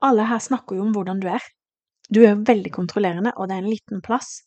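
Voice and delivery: a touch of an irritated teacher snapping. Retold or imitated. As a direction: rattle off the teacher's rebuke with some heat. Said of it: "begynte hun å heve stemmen".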